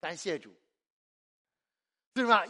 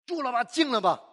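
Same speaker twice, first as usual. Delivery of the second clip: commanding Jesus; 3 semitones higher, 3 dB louder than usual. Retold or imitated. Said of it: "他会怎么说".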